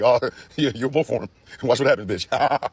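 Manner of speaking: laughing taunt as Karma; Karma cackling a threat; voicing Karma. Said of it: "Karma's like".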